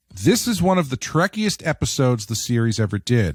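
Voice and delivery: ordinary talk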